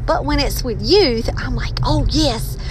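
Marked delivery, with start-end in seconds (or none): 1.8-2.6 animated. Retold or imitated. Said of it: "I get all animated".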